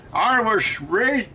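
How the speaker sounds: badly faked Australian-Scottish accent, drawn out; failed accent mash-up. Streamer abandons an impression, faltering Australian-Scottish accent. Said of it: "I can't do it".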